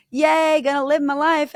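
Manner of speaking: high, loud, hammed-up cheerfulness; mock cheery denial. Mocking women who sweep their pain under the rug, hammed-up cheer. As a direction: play the naive cheer of someone hiding it all. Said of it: "And you're like".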